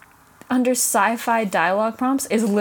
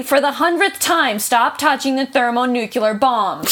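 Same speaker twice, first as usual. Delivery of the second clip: exasperated Bones; 3 semitones higher, 4 dB louder, slower than usual. Retold or imitated. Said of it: "That's just Star Trek".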